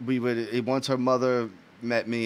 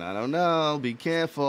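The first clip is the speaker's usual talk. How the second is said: higher-pitched wary mom; imitated doubtful mother; 4 semitones higher than usual. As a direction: mimic a mother's warning, pitched up. Her mother's doubtful warning, acted.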